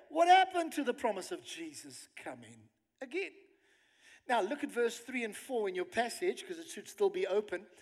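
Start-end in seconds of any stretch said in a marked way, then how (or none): 0.1-3.3 mildly mocking scoffer, rising at the end. Preacher quoting last-days mockers to the congregation, mocking. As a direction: quote it as a doubter's taunt. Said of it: "mockers will say".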